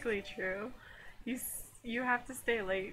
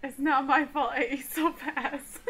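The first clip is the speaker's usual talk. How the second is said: defensive whine; 4 semitones higher, 6 dB louder than usual. Acted. Defensive character, loud.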